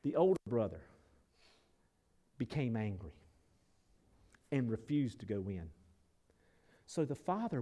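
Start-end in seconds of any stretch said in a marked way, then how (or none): none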